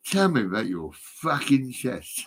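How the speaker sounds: slow, deliberate mock operator line; mock operator swearing. Imagining the NHS line swearing, slow and deliberate. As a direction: drag it out like a swearing phone nurse. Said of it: "they actually say".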